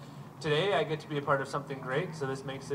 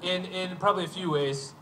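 laughing; 5 semitones higher than usual. Real, not acted. Jokes about heavy medal.

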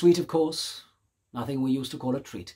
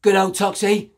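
higher, louder cheering call; 6 semitones higher, 6 dB louder than usual. Acted. Teenager cheering the girl as she shoves the stranger: loud cheering call. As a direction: cheer her on across the room. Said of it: "The teenager called out".

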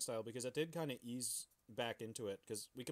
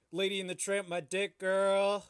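flirty pickup line; 7 semitones higher, 9 dB louder than usual. Pretend.

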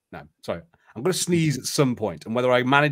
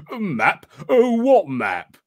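feigned innocence; 8 semitones higher, 6 dB louder, slower than usual. Acted. Narrator voices suspicious stranger.

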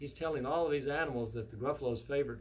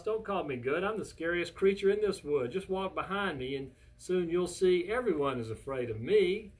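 raised, emphatic storybook brag; boastful mouse; 3 semitones higher, 5 dB louder than usual. Acted. Mouse tells Gruffalo everyone fears him, boastful. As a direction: boast it with playful bravado.

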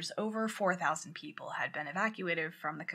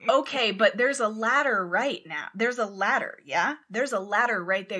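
firm, raised phone voice over the noise; retold shouting; 4 dB louder than usual. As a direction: lean in and order him up the ladder. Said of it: "so they're shouting anyway".

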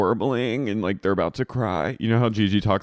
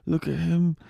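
high, slow, mock wonder; put-on boss; 7 semitones higher than usual. Boss admiring trapped bartender, high mock wonder. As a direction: marvel slowly in a raised voice.

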